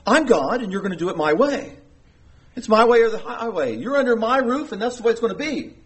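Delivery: imitated domineering decree. Acting God as domineering parent.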